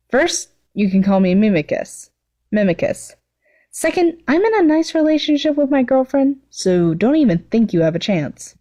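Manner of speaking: rolling her eyes at her friend; Mimicus's voice.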